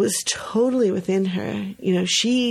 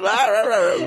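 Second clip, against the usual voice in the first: mock cheer; 3 semitones higher, 4 dB louder than usual. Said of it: "the whole thing".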